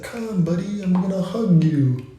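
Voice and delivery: lightly voiced comforting couch; friendly couch voice. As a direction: coax someone to sit and relax. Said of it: "It's like".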